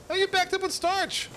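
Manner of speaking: high, startled question; surprised. Real, not acted. Surprised at the factory.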